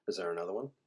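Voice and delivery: breathy unvoiced whisper of a question. Bard whispering his question to the boy. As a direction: hush it like a secret.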